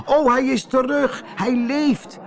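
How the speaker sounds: high, amazed exclamation; joyful cry. Acted. Poetsertjes see Koosje alive, high joyful cry. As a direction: cry out high in delighted surprise. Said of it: "riepen ze".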